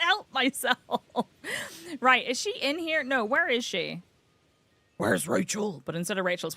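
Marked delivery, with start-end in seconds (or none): 5.0-5.8 put-on Batman growl. Streamer searching for a game character, Batman voice. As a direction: do Batman asking after someone. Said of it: "Amazing Batman voice".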